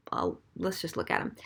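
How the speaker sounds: ordinary talk, nothing marked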